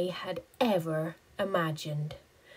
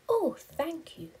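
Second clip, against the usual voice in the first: little spider voice; 11 semitones higher than usual. Acted. Grateful little spider speaks.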